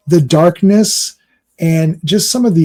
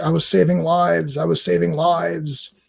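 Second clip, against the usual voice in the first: higher, mildly whiny protest; mock upset; 4 semitones higher, 4 dB quieter than usual. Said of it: "he's yelling at her, and he's getting upset".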